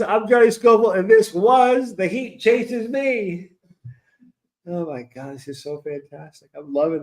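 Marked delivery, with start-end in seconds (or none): 0.0-3.5 mock announcer intro. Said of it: "the speaker says".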